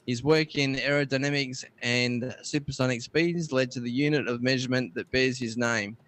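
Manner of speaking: slightly lifted, measured reading voice; presenter reading a history bulletin; read-out history item. Acted. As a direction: read out the date and entry deliberately. Reads out tech history item.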